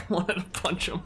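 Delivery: quiet repeat. Real, not acted. Gamer repeating to chat after the outburst, quiet and amused. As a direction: take it back down, quietly.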